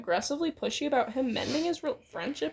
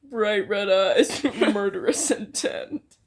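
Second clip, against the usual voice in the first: slow, louder, savoring each word; slow mock-dramatic reread; 4 semitones lower, 5 dB louder, slower than usual. Real, not acted. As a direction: relish the menace, drawn out. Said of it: "rereading the line dramatically".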